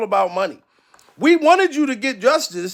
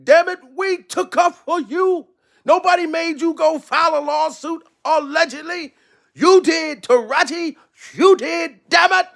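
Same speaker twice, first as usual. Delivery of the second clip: Jody; 4 semitones higher than usual. Acted. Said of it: "Now I'm talking like I'm Jody".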